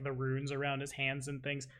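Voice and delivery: normal talking voice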